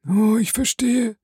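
high, stricken cry; dawning terror; horrified realization. A narrator's reading. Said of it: "rief der Unglückliche".

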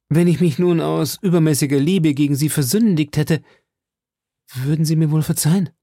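a touch of nervous urgency; D'Artagnan voiced. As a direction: coax forgiveness out of her. D'Artagnan asking forgiveness.

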